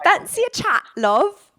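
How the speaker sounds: cheeky mock British accent. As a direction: chat someone up in mock Cockney. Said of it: "all of us trying to do British accent".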